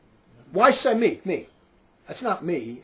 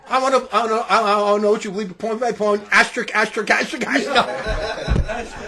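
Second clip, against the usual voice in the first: all caps reading; 4 dB louder than usual. Retold or imitated. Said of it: "it's all caps".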